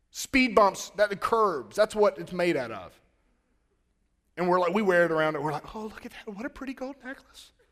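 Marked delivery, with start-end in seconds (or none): 5.8-7.5 creepy, high, badly put-on girl voice. Admiring a necklace made from curbs, bad put-on girl voice. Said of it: "That was the worst impression of a girl ever".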